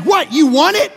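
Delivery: eager offer; eager call. Retold or imitated. Friend offering his horse on the phone, excited and loud.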